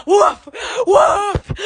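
loud mock barking like the dogs. Copying her dogs for the viewers, loud mock barking. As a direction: bark it out, imitating her dogs. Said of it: "They started barking real bad".

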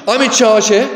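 mildly smug, self-satisfied tone, lightly voiced; a hint of a puffed-up know-it-all; arrogant boast. Preacher mimics a proud man bragging, lightly smug. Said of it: "Do not speak as if".

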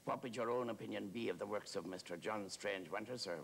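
even, full-voiced deferential query; keen, respectful questioning; earnest admirer's question. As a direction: ask it eagerly, at full conversational volume. Admirer's earnest question, later echoed.

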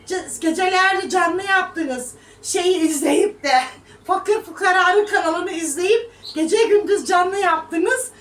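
slow, loud scolding. Real, not acted. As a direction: drag it out and scold them hard. Scolding commenters.

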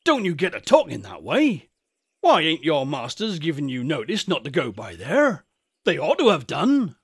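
lightly voiced shepherd cautioning the boys; a hint of alarmed countryman; old rustic shepherd, startled.

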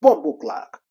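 loud mock Jamaican exclamation; punchy put-on Jamaican accent; imitated Jamaican accent. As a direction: throw it out like a Jamaican. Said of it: "people sounding like Jamaicans".

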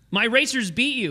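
mock-bragging to a rival; retold boast. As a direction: crow about a win. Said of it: "I said something like".

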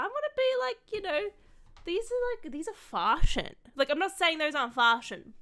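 high, loud, excited chatter; shouting unawares. Real, not acted. Creator wearing noise-cancelling headset, unwittingly shouting. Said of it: "I think I'm shouting".

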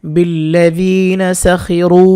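বিল্লাযিনা সাখিরু drawn out, খি and রু stretched; slow recitation. Shown as a demonstration. Teacher recites the phrase slowly for learners. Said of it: "এক আলিফ টেনে পড়তে হয়".

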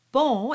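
bon with a nasal closed O, silent n. Shown as a demonstration. Teacher showing the normal word, bon with nasal O. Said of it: "pronounced as a nasal, very closed O".

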